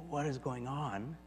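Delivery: soft, hushed self-questioning. Acted. Preacher voicing a listener's private question, hushed. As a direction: ask it under your breath. Voices a bewildered inner question.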